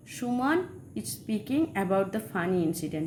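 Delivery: very slow, word by word; slow dictation. Shown as a demonstration. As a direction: read it slowly for the class to copy. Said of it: "example sentence". (ধীরে ধীরে পড়ে শোনানো)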